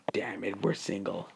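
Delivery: the single guys grumbling to themselves, very soft; inner thought. Retold or imitated. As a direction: say it as a private grumble.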